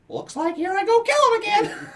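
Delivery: very high, loud mock war cry; Jalen. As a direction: yell it in a high, over-the-top character voice. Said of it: "Jalen would be like".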